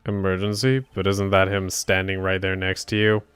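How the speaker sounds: lightly voiced judge, questioning; puzzled judge. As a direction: query the counsel as a mildly baffled judge. Plays the judge in game.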